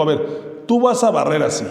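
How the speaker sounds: lightly voiced parent ordering a child; parent giving an order. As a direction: bark a chore at your child. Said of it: "le dices a tu hijo".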